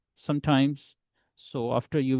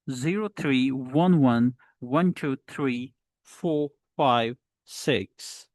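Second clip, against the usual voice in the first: digits in measured groups; phone number delivery; slower than usual. Shown as a demonstration. Teacher repeats the phone number model, grouped digits. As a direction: count out the number in separated chunks. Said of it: "So in this way".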